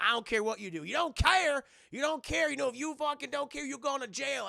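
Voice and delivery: high-pitched, loud mock scolding; worked-up, hammed-up exasperated telling-off; angry rant. Dad warning his son about jail, mock angry rant. Acted father-son shouting match.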